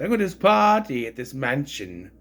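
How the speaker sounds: mock British actress voice; lightly imitated British accent. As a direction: put on a British accent for the quote. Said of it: "she's doing a British accent here".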